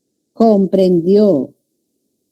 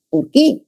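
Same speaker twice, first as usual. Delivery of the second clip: ¿Por qué? raised and stressed on qué; emphasised question word; 7 semitones higher than usual. Shown as a demonstration. Teacher isolating the stressed question word. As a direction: hit qué with a rise. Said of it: "énfasis, ¿no?".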